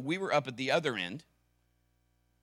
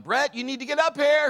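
higher, louder urgent call upstairs; retold yell; 13 semitones higher, 8 dB louder than usual. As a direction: call him up, alarmed. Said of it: "And Kim yelled".

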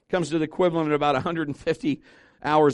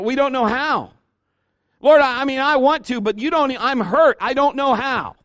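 pleading; 9 semitones higher, 6 dB louder than usual. Acted. Voices a hurt believer pleading.

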